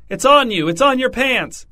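high, loud panicked shriek. A narrator's reading. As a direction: shriek it in alarm. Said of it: "The woman shrieked".

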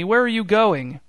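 high, loud call after him. A narrator's reading. Tammy calling after Newton down the aisle, loud call. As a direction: shout to stop him leaving. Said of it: "shouted Tammy".

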